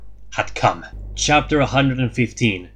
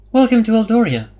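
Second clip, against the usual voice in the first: raised, louder royal welcome; regal but warm; 11 semitones higher, 7 dB louder than usual. A narrator's reading. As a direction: greet the envoys like a gracious queen. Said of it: "her voice regal but warm".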